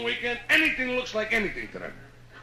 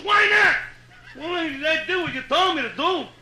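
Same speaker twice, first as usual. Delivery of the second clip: louder, higher indignant rant; indignant husband; 4 semitones higher, 3 dB louder than usual. Acted. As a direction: defend himself, worked up to a shout. Husband's retold indignant reply.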